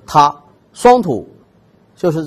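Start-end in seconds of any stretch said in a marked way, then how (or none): 0.1-0.3 他 said as a crisp tongue-tip "ta"; single-tongue syllable. Shown as a demonstration. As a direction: tap the tongue-tip sharply on 他. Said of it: "或者是他". (用舌尖清楚地念"他")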